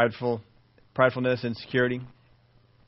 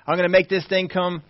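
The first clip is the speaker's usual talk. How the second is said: higher and louder, slow and fervent; building preacher's fervor; rising zeal; 7 semitones higher, 3 dB louder, slower than usual. Real, not acted. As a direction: push it up with conviction.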